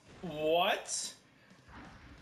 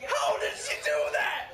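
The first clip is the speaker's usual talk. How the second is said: high-pitched cries of real disbelief; incredulous shrieking; 11 semitones higher than usual. Real, not acted. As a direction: squeal each question, rising higher in shock. Stunned by opponent's move.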